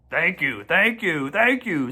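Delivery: repeated thanks rising each time; bow and thank over and over; fussy goose. A narrator's reading. Goose thanks the crowd with eager bows. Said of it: "said the goose, nodding and bowing shamelessly".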